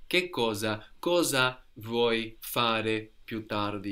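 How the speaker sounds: cosa vuoi fare più tardi said slowly and clearly; a slow, clear teacher's model. Shown as a demonstration. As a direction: model the phrase for the learner slowly. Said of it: "Very good".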